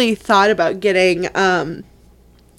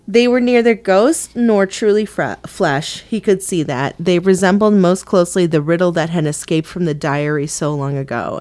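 lower, even read-aloud voice; book reading; 6 semitones lower than usual. Acted. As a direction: read the passage aloud in a measured, slightly lowered voice. Reads a book passage aloud.

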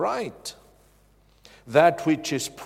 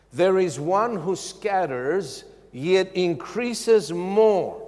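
slow, weighty scripture reading; slow deliberate reading; 3 semitones higher, slower than usual. Shown as a demonstration. Preacher reading scripture slowly to listeners. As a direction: let each word land for the congregation. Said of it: "listen carefully".

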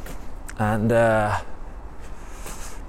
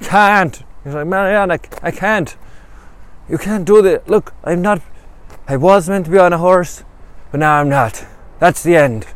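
high, loud whining protest; whiny pleading Greg; 7 semitones higher, 6 dB louder than usual. Acted. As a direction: squeal it like a desperate man giving up. Winded Greg begs Marianne to stop.

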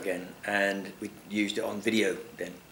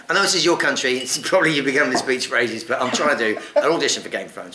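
higher, louder mock rant at strangers; mock telling off; 3 semitones higher, 5 dB louder than usual. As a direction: lecture them in a raised, half-joking voice. Telling off Spanish family.

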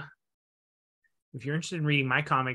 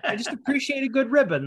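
laughing through it, higher and louder; 10 semitones higher, 4 dB louder than usual. Real, not acted. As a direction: insist on the ribbon through laughter. Repeats line, laughing.

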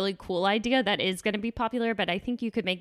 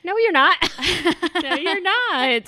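emphatic reassurance; 9 semitones higher, 7 dB louder than usual. Real, not acted. Reassuring friend who called herself loser.

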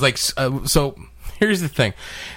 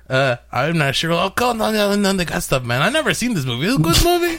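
put-on Hispanic accent; 5 semitones higher than usual. Prank caller to toy store in light Hispanic accent. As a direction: play a confused dad with a Hispanic accent. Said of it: "very Hispanic name".

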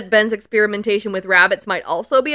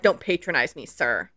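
put-on haughty kid; 7 semitones lower, 5 dB quieter than usual. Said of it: "And Ben is like".

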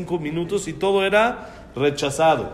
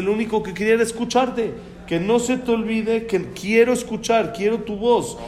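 higher, earnest appeal; insistent longing; 6 semitones higher than usual. Acted. God asking people not to forget prayer, insistent longing. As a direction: plead to hear them, pitched up.

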